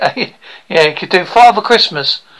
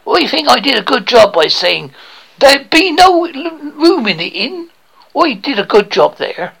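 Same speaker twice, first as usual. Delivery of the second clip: broad rural British bumpkin, higher voice; eager would-be actor; 7 semitones higher than usual. Acted. Aspiring actor boasts to coach about school play, eager bumpkin voice. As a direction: play a naive hopeful with a thick country accent.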